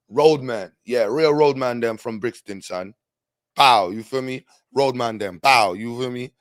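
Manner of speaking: loud hammed-up London roadman slang; mock London roadman. Streamer to chat, hammed-up London roadman accent. Mimicking Brixton roadman talk.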